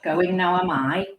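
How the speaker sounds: a hint of a little sage, words stretched; Yoda. Coach teasing herself in an inner voice, lightly done Yoda. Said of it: "I either use my Yoda voice".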